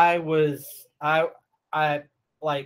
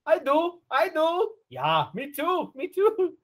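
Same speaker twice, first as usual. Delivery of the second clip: very high, squeaky put-on replies; mock eager volunteers; 13 semitones higher, slower than usual. Friend quoting movie characters wanting a mustache ride, high mock eagerness. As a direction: pipe up in a falsetto, eagerly.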